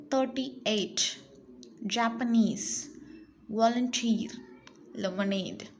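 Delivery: words like "afternoon" and "engineer" stressed on the final syllable; last-syllable stress. Shown as a demonstration. Teacher drilling a word list, stress on last syllable as in "Japanese". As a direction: land on the last syllable, as in "oversee" and "volunteer". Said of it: "Stress the syllable in bold".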